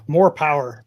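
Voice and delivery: loud macho catchphrase; Tim Allen voice. Retold or imitated. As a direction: belt it out like a tool-show host. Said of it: "Tim Allen style".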